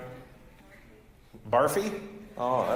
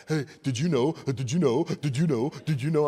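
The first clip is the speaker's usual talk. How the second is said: mock nagging youngster.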